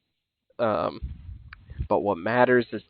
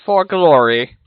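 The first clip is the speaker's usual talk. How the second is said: creature voice; 10 semitones higher, 3 dB louder than usual. Acted. Creature answers the party.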